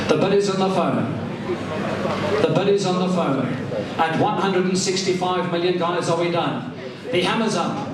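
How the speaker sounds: brisk auction patter with pauses; auctioneer calling bids. Acted. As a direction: work the room like an auctioneer.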